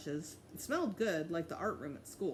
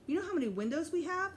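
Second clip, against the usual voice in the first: eager boast; 10 semitones higher, 4 dB louder, faster than usual. A narrator's reading. Jimmy boasting about loft.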